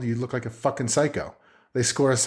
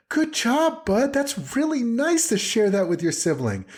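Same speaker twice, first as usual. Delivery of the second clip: mild parental praise; 11 semitones higher than usual. Acted. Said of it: "I don't just go like".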